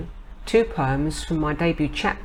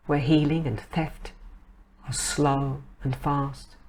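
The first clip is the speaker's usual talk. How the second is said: poetry reading. Acted. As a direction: let each phrase stand between pauses. Reads own poem Time.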